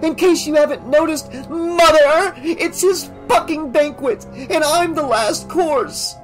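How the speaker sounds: enraged daughter accusing mother; furious accusation. A narrator's reading. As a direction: lash out at her mother.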